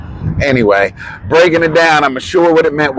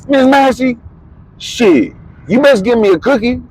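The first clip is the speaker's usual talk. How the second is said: imitating Thurman; 10 semitones higher than usual. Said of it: "He comes in, he goes".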